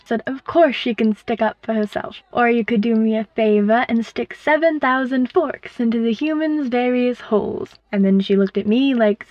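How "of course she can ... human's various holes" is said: put-on Surrender's booming accent. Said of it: "with her accent and her booming voice".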